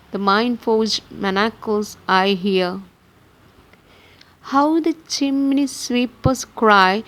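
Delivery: measured verse reading, pausing at line ends; lightly lilting, deliberate poetry reading; poem recitation. Acted.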